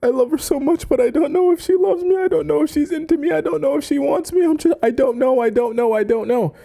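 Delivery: high, fast, whiny mock sobbing; mock crying lover. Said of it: "he's just like, crying".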